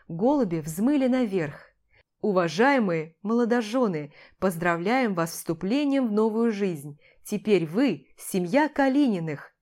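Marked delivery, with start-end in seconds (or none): 2.2-9.5 mildly ceremonial congratulatory address; solemn announcement. A narrator's reading. Father congratulating the newlyweds, solemn announcement. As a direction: proclaim it with understated formality. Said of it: "торжественно объявил отец Макса".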